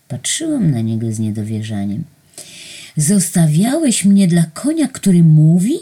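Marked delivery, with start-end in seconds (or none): 3.0-5.7 louder, higher outraged question; exclaiming. A narrator's reading. Narrator exclaiming at angel over talking horse. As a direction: cry out in indignant disbelief. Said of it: "zawołałam".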